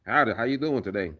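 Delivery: lightly put-on cowboy greeting. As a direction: say howdy like a cowboy. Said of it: "Start doing my videos with a cowboy voice".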